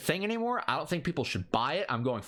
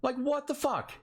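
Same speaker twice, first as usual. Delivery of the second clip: incredulous repeat; 7 semitones higher than usual. Real, not acted. Host repeats it to his cohost, higher and incredulous. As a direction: say it again, higher and more stunned. Repeats outburst, pitch jumps.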